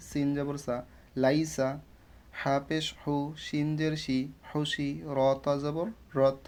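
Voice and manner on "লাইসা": লাইসা with neither syllable stretched; no elongation. Shown as a demonstration. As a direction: read লাইসা without drawing it out. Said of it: "কোনো টান দিয়ে পড়বো না". (লাইসা টান ছাড়া)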